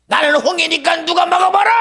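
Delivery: high, loud bragging challenge; boastful shout. Acted. The Red Sea boasting, shouted high. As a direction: dare anyone to stop you.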